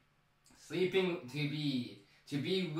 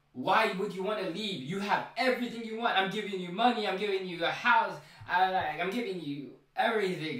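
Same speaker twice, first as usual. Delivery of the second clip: a higher, louder, insistent voice for Penguin; Penguin pressing Vic; 4 semitones higher, 3 dB louder than usual. Retold or imitated. Penguin pressing Vic not to leave, lightly voiced and insistent. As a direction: push hard, as if talking him out of leaving.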